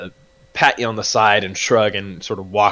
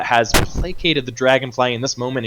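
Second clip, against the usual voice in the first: ordinary talk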